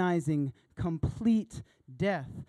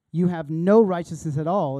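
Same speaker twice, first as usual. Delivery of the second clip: loud, emphatic no righteousness; forceful declaration; 9 dB louder than usual. Acted. Jesus declares to the crowd, forceful and loud.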